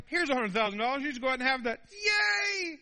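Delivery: high, loud shrieking glee; squealing excitement. Retold or imitated. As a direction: shriek like you won the lottery. Someone offers free money.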